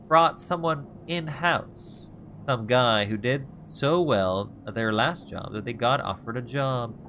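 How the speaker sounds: a hint of a sly informant, unhurried; lightly voiced scheming crook. An old colleague sharing rumours with the player, a touch slow and sly. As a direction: spin the rumour slowly like you savour it. Voices Ethan telling gossip.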